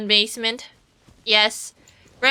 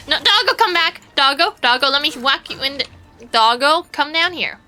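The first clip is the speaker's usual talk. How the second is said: calling a dog again; 3 semitones higher than usual. Real, not acted. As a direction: plead with it, pitch up.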